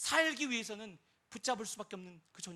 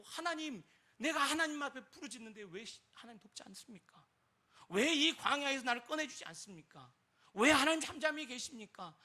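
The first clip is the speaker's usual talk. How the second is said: louder, higher anguished pleading; lamenting cry; 4 semitones higher, 5 dB louder than usual. Retold or imitated. David crying out to God from the wilderness, a lamenting plea. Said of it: "다윗이 탄식하며 부르짖고".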